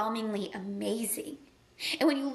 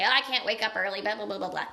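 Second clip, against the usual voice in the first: imitating a grumbler; mock excuse trailing into blah-blah; mock complaining; 3 semitones lower than usual. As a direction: grumble dismissively, making fun of the complainer. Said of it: "You're gonna bitch and complain".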